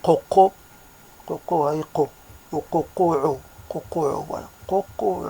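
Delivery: light mock rooster crow, first coco loud and rising; rooster crow imitation. Speaker mimicking the rooster he hears in Morocco, mock crowing. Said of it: "ça donne ça".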